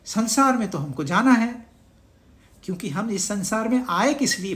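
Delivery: ordinary delivery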